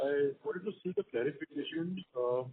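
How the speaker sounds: quiet and muffled, like through a hand; muffled speakerphone voice. Real, not acted. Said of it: "your line was muffled".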